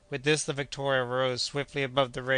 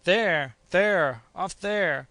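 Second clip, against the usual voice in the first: high, loud frantic shriek; inhuman shriek; 5 semitones higher, 6 dB louder, much slower than usual. A narrator's reading. Doctor sights the storm, inhuman shriek. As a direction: shriek and point at the horizon. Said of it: "in a voice no longer human, shrieked".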